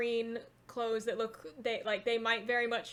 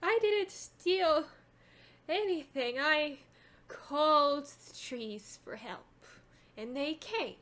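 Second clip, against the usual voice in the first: slow, higher-pitched crone voice; crazed old woman; 4 semitones higher, slower than usual. Acted. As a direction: plead the case slowly as an old hag. Old woman explains herself in character.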